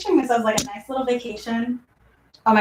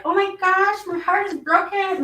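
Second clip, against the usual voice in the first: mock heartbroken; 9 semitones higher than usual. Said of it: "instead of being like".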